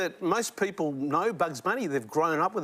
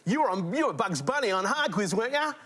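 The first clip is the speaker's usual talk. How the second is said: imitated broad Aussie fan; quicker Aussie accent, rising at the end; 4 semitones higher, faster than usual. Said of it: "come back with an Aussie accent".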